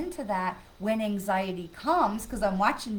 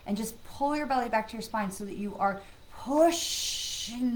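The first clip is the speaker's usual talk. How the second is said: guided breathing. Acted. Leads breathing exercise.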